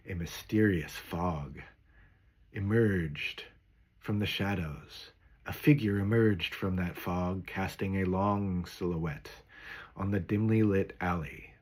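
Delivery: hushed, mysterious storyteller read. Shown as a demonstration. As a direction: draw the listener into the fog. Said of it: "or more mysteriously".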